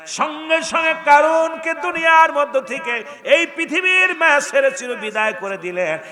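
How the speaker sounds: high, loud Islamic sermon cry; full-force preaching. Acted. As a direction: preach it out, pitched high above the crowd. (উঁচু গলায় জোরালো ওয়াজ)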